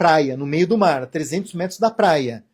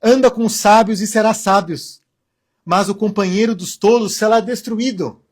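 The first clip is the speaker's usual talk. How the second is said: scripture reading; 2 semitones higher, 4 dB louder than usual. Acted. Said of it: "abre aspas".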